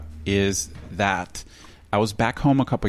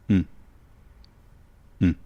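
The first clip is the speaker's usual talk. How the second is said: Thai mm. Shown as a demonstration. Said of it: "they go".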